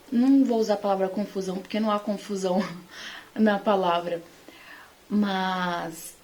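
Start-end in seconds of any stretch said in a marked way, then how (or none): 3.3-6.2 whispered aside. Real, not acted. Laughs softly, then whispers.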